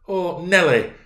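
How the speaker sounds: put-on high, loud girlish complaint; petulant. A narrator's reading. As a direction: whine it out petulantly. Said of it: "she added petulantly".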